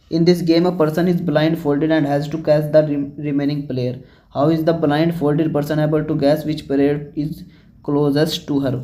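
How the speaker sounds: reading the English text out word by word, slowly; slow textbook reading. Acted. Teacher reading the book question to students, slow and deliberate. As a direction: spell out the textbook sentence slowly for the class.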